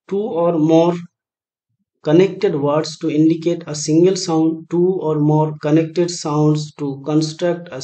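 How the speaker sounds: slow, even option reading; slow quiz reading. Acted. Teacher reading out option A to the class, slow and measured. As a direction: spell each option out slowly.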